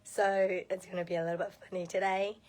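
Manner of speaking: hoarse, half-whispered lost voice. Real, not acted. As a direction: voice mostly gone, breaking into whisper. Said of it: "I've lost my voice".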